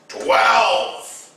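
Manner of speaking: sharp shouted correction; mock shouted retort; Han's correction. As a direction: bark the number back. Han corrects loudly.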